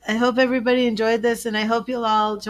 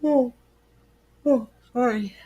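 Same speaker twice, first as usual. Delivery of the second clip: whispering; 3 semitones higher than usual. Real, not acted. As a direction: whisper an apology. Apologising after interrupting.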